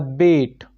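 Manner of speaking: बेट given firm stress, drawn out; stressed syllable. Shown as a demonstration. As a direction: lean on बेट as the stressed beat. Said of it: "इस पे जोर दिया जा रहा है".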